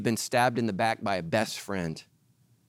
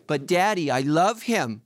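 pleading daughter; 3 semitones higher, 4 dB louder, slower than usual. Retold or imitated. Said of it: "daughter pleading with father".

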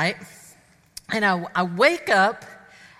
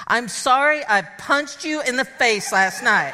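sheepish confession. Retold or imitated. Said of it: "he goes".

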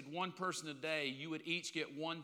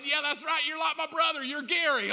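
retold loud greeting; 9 semitones higher, 10 dB louder than usual. Retold overeager greeting to Gary.

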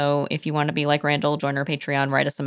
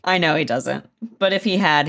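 ordinary talk, nothing marked

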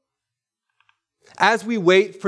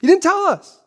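"You didn't tell us" said again through a laugh, higher; a laughing, mock-whiny "You didn't tell us"; laughing repeat; 12 semitones higher, 4 dB louder than usual.

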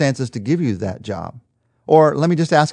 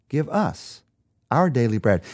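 us and our weighted, with a pause between phrases; stress on us and our. Shown as a demonstration. Preacher restoring the true prayer, stress on us and our. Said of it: "Not, "Give me today my daily bread".

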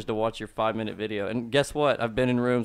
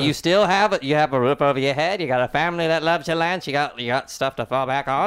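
lightly voiced consoling impression; mock pep talk to a weeping man; John Lovitz. Star listing reasons to cheer up, put-on consoling voice. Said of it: "Trying to console a crying Lance".

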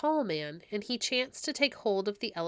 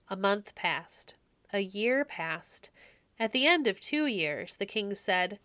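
slow storybook telling; fairy tale narration. A narrator's reading. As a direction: let each time marker land slowly. Time passing in tale.

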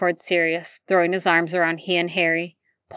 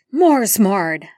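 shouted spell; 3 semitones higher, 5 dB louder than usual. Acted. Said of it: "A shout rang out the spell".

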